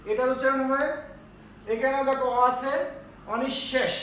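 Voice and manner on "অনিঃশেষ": অনিঃশেষ with doubled "sh": onishshesh; pronunciation demo. Shown as a demonstration. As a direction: hold the middle "sh" of অনিঃশেষ. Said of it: "এর উচ্চারণ হবে অনিঃশেষ".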